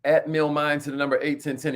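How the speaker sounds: each word slow and separate, spelled out; spelled out slowly. Shown as a demonstration. Host reading the text code out to viewers, slow and deliberate. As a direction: dictate the handle slowly so viewers can write it down. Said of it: "So text message".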